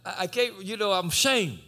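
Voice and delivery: mild ashamed stammer; a hint of a guilty man; understated shame; sheepish. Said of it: "he was kinda sheepish".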